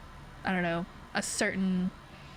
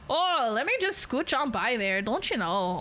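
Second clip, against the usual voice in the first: put-on stereotypical Canadian accent. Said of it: "how people think Canadians sound".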